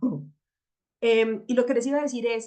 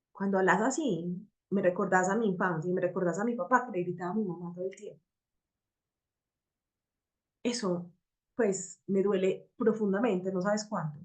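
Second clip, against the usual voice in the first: vulnerable, sincere; 2 semitones lower, 4 dB quieter than usual. Shown as a demonstration. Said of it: "cuando tú te expresas de esta manera".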